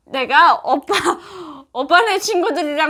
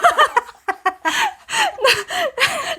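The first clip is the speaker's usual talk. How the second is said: put-on North Korean accent; 4 semitones higher than usual. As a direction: sing it in North Korean dialect. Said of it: "북한 사투리".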